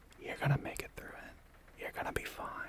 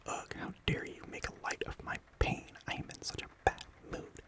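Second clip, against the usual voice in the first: mock indignation. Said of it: "real mad at me".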